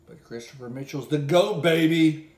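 high, loud hype shout; excited shout. Real, not acted. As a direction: belt out the praise. Hyping rival, shouting.

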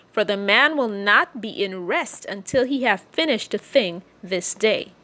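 measured King James reading voice; solemn scripture reading. Acted. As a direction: read the Bible passage aloud to the congregation. Reads Ruth chapter three aloud.

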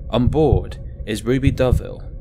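ordinary delivery, nothing marked

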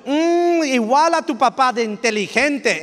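genuine, proud compliment with no irony; mean every word about dad's smarts; heartfelt praise of the child's father; sincere praise. Shown as a demonstration. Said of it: "and not say it sarcastically".

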